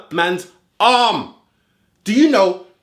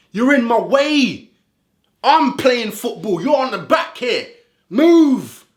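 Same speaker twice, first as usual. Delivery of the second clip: acting out a shove; 4 semitones higher, slower than usual. Acting out Bruno shoving a player.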